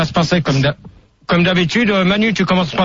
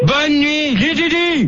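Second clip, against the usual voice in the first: high-pitched, drawn-out goodnight; irritated dismissal; 7 semitones higher, much slower than usual. Real, not acted. Host cutting off a caller who asks back, irritated dismissal.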